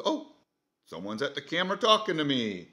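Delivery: a hint of a curious pet; dog's voice. Narrating the pet camera for viewers, a light dog voice. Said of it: "the dog goes".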